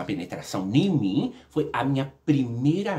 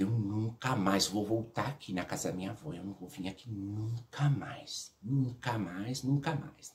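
soft, slowing inner resolve; hushed private vow; 4 semitones lower, 8 dB quieter than usual. Retold or imitated. Child thinking about never returning to grandmother's house, quietly resolved. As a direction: say it low to yourself, drawing out the repeats.

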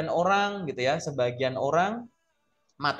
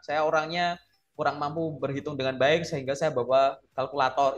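brisk memorised interview answer; rote template answer. Shown as a demonstration. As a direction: recite it like a rehearsed script. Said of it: "Itu jawaban template".

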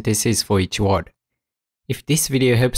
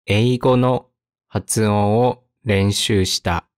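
slow, separated phrases; slow model reading; slower than usual. Shown as a demonstration. Teacher models a practice sentence for learners, slowly. Example read slowly, then at speed.

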